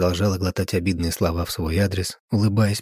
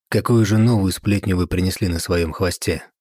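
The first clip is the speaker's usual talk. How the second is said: needling tease; 4 dB louder than usual. Acted. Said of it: "поддел её Владимир".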